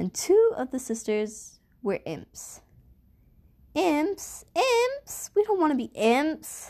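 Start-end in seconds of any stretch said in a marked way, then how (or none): 3.7-6.7 high cry together in unison. Sisters interrupt the storyteller together: crying out in unison. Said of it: "the Bellas cried in perfect unison".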